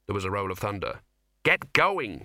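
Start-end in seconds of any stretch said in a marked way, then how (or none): 1.4-2.2 loud, high command; shouting. A narrator's reading. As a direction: shout him up the stairs. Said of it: "shouted Ginger".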